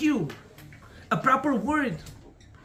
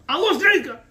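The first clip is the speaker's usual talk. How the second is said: wife confessing; 7 semitones higher, 7 dB louder, faster than usual. Acted. Wife confesses losing card.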